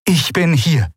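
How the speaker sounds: lightly voiced, high Shayang announcement; the Shayang announces herself to the crew; announcing. A narrator's reading. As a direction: announce her arrival calmly. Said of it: "verkündete die Shayang".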